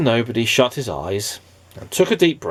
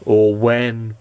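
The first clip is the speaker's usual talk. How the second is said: sobbed; 4 dB louder than usual. Acted. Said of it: "he sobbed".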